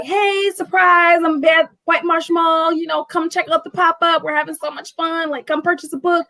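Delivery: upbeat promo voice. Retold or imitated. Owner inviting followers to her pop-up, high cheery hype. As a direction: sell the pop-up like a cheery announcement.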